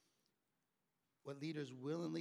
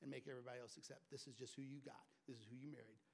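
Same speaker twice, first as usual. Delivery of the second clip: mock resigned; 2 semitones lower, 7 dB quieter, faster than usual. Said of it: "never in your pride go".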